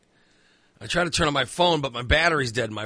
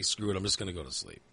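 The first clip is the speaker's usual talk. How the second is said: lower, softer retold self-talk; resigned grumble; 7 semitones lower, 10 dB quieter, faster than usual. Man rolling over to sleep, quietly resigned. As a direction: give up quietly to yourself.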